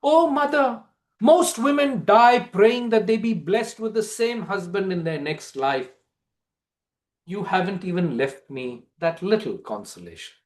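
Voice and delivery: high, anguished plea that fades; a widow crying out to the goddess before the pyre; Padmini's cry to Kali. Acted. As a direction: lament starting high, sinking to a hush. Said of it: "she calls out to Ma Kali".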